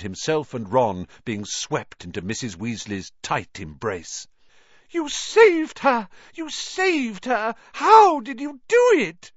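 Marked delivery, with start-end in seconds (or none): 4.9-9.3 high, loud, tearful joy, slow on "You saved her!"; overjoyed cry. A narrator's reading. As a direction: she can't believe her child is back. Mrs Weasley's overjoyed cry.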